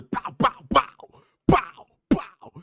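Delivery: high, punchy imitation of landing blows; mimicked punches, pitched high; punch sound effects. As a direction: throw each pow like a haymaker, spaced out.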